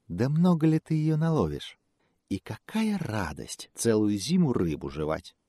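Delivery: soft, sly fox voice. Acted. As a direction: coax him like a cunning fox.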